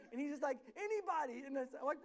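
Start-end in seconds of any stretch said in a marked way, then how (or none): 0.7-1.5 put-on little kid calling for help; loud, pleading kid voice; high-pitched child's call. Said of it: "It's real high pitched".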